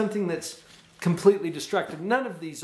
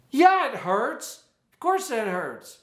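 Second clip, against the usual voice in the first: slow, soothing "Yeah, it hurts"; gentle empathy for a skinned knee; empathetic comfort; 7 semitones higher, 5 dB louder, slower than usual. Shown as a demonstration. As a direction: comfort a hurt child. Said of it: "comfort them and show some empathy".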